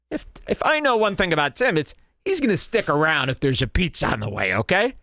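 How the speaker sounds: high, fast voicing of Joe's hopeful thoughts; mock Joe voice. Commentator voicing the host's hopes, high and fast. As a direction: rattle it off high as the eager host.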